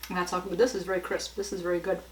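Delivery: talking while chewing bacon; words around a bite of food; mouth full. Real, not acted. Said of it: "I'm gonna talk with my mouth full".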